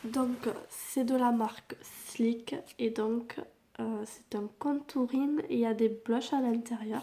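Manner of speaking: cracking, duck-like voice. Real, not acted. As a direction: voice breaking up. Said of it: "j'ai une voix de canard, j'ai une voix qui part en cacahuète". (voix qui se casse)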